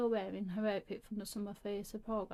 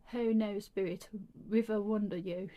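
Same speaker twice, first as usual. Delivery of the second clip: loud, hammed-up terrible British accent; loud, overdone British accent; worse British accent; 6 dB louder than usual. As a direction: belt it in a clumsy British accent. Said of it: "in an even worse British accent".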